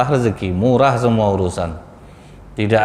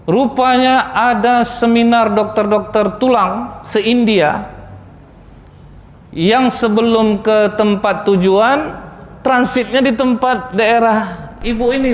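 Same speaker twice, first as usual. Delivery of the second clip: slow dramatic build; 10 semitones higher, slower than usual. A narrator's reading. Storytelling build-up.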